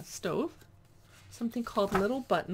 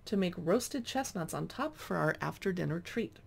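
reading aloud. Acted. Reads cookbook introduction aloud.

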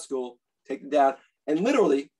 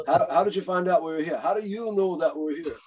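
Gene Simmons voice. Retold or imitated. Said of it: "Gene, in his infinite wisdom".

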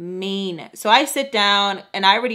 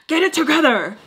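snapped-out yell at a crying brother; exasperated yell; 7 semitones higher, 4 dB louder than usual. Retold or imitated. Teen yelling at her crying brother, exasperated. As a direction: yell at him to pull himself together.

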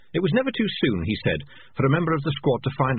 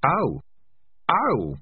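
higher, jittery scoff; nervous sarcasm; 7 semitones higher than usual. A narrator's reading. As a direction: nerves tipping into sarcasm. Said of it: "nervous to the point of mad sarcasm".

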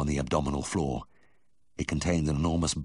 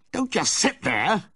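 higher, slow, forceful order; panicked shout; 4 dB louder, slower than usual. A narrator's reading. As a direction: bark it at the frozen student. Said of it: "I shouted".

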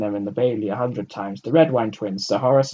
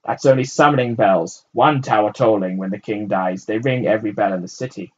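shouting up; 8 dB louder than usual. A narrator's reading. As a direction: shout it up, then explain. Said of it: "the man shouted up".

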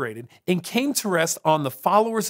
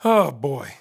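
whispered aside; 4 semitones lower than usual. Real, not acted. Narrator's weary aside.

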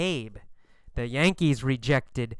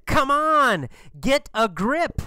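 friend scolding; 9 semitones higher than usual. Acted. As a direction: play the friend telling Babe to snap out of it. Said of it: "His friend said".

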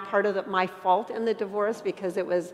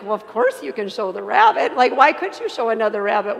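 emphatic reassurance; 8 dB louder than usual. Retold or imitated. Retelling her insistent reply to caller.

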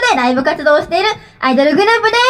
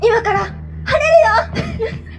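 higher, very slow dramatic line; mock anime prayer; 5 semitones higher, much slower than usual. 天気の子のように晴れを祈る、引き伸ばした芝居声. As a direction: draw it out like a playful spell for clear skies. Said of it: "天気の子的な感じで祈ったら".

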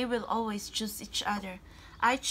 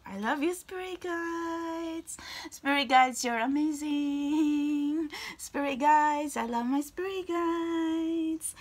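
higher, slow sing-song with long held endings; adoring gush; 5 semitones higher, slower than usual. Real, not acted. Reader thanking the spirit guides, adoring drawn-out sing-song. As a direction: stretch each last word out in adoration.

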